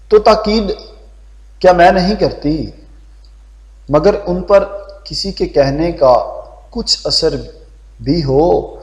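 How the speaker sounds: wife grumbling to the doctor about her stubborn husband; complaining wife. Acted. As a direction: let the wife's frustration rise.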